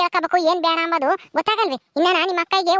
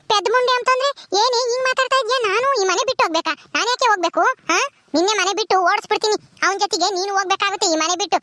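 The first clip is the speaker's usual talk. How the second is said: indignant scolding; 3 semitones higher than usual. Acted. Aunt furious at being told leave.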